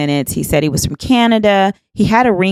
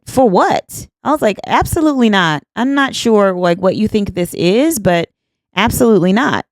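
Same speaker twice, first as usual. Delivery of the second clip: higher-pitched, affronted refusal; puffed-up indignation; 4 semitones higher than usual. Retold or imitated. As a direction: puff yourself up and refuse him outright. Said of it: "Me puffing up like I say I do".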